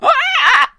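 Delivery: sudden high screeching monster yell; monster shout. Retold or imitated. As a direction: let out a wild creature scream. Imitating monster shout for spider.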